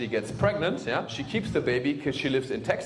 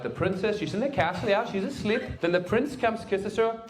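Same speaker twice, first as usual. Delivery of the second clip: higher, sing-song storybook voice; sweet fairy-tale telling; 8 semitones higher, 4 dB quieter than usual. Shown as a demonstration. A hint of storyteller reading the Disney version, sing-song. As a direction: tell it like a bedtime story for kids. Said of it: "the American version".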